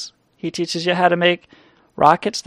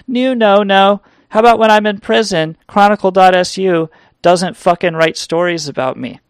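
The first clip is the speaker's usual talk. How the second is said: mock outburst; 4 semitones higher, 5 dB louder than usual. New no-no rant.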